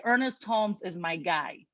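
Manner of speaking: light Chicago accent; casual Chicago twang on my guy. Real, not acted. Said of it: "You just heard my Chicago accent".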